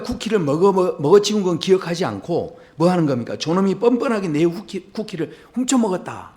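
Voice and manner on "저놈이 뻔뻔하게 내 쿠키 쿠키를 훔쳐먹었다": higher-pitched, indignant mock outburst; worked-up accusation. Cookie eater accusing a stranger of stealing, acted indignation. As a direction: accuse a thief, hammed-up and agitated. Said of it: "이렇게 지금 흥분하는 거죠".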